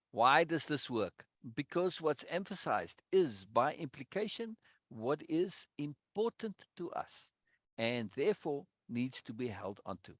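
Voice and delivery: deliberate, measured read of lesson text; emphatic reading aloud. Acted. Reading the course text aloud to the group, emphatic and deliberate. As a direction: read it out, leaning on the key words.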